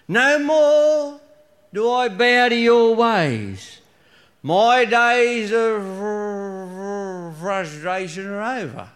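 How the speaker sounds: put-on slow, slurred drunken speech; a tipsy husband gathering his courage, slowly.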